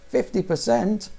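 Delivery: can't believe the price; drawn-out stunned echo; shocked disbelief. Acted. Shocked at the discount.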